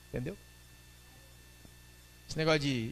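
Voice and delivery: ordinary delivery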